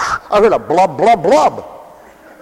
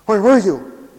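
whiny clinging friend. Acted.

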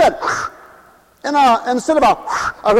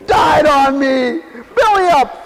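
mock wailing; 2 semitones higher, slower than usual. Acted lament over a dead man.

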